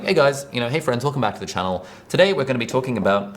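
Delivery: easy, lightly lifted channel welcome; coffee chat presenter. Acted. Presenter welcoming friends back to the channel, casual coffee chat manner. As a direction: welcome viewers as if chatting over coffee. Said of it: "get into the coffee chat presenter mode".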